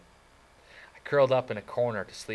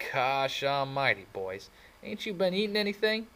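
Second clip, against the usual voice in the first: surprised; 6 semitones higher than usual. Acted. Dally surprised, mock concern.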